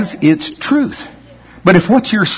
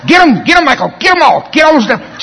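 high hammed-up cheer; mock cheering on; 9 semitones higher than usual. New believers urging Michael against devils, hammed-up high cheer. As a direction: egg him on like an overexcited newbie. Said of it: "little scared sheep going".

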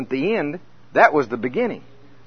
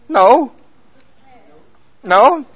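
loud, high refusal; emphatic protest; 9 semitones higher, 9 dB louder than usual. Retold or imitated. Preacher acting out his protest to scripture, loud and high. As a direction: shout no back at the verse. Arguing with Romans six verses.

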